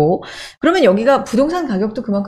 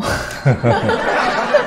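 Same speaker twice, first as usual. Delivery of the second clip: amused chuckle; short burst of laughter; laughing; 11 semitones lower than usual. Real, not acted. Host asks why the city is unequal, laughing.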